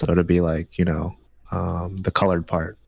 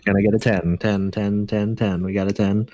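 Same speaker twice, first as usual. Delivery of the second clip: auctioneer. Pretend. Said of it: "It's like a bid now".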